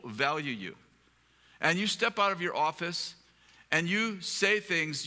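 slow, deliberate retold reproach; measured, weighty telling-off; earnest rebuke. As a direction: spell it out slowly, pausing between phrases.

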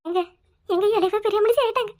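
halting tearful confession; acted weeping, words breaking up; sobbing. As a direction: choke the news out between sobs. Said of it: "அப்படி குலுக்கி குலுக்கி அழுவுற".

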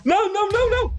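high, rising cries of no; panicked shriek. Real, not acted. Gamer shrieking at the creeper, panicked.

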